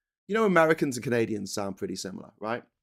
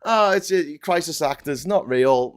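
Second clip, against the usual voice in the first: raised, louder mock denial; dismissive mimicry; 3 semitones higher, 4 dB louder than usual. Imitating people who deny the children's deaths, dismissively. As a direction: brush it off as a scoffing denier. Mocking deniers of dead children.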